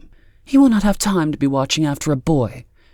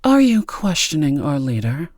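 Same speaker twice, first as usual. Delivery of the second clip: higher-pitched, disdainful stern woman; disdainful challenge; 7 semitones higher, 4 dB louder than usual. A narrator's reading. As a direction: challenge her with open disdain. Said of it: "Tabitha's expression was one of clear disdain".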